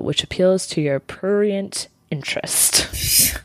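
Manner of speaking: slow breathy whisper of a legal phrase; whispered quote. Retold or imitated. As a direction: whisper it slowly, half-teasing. Quoting the legal definition.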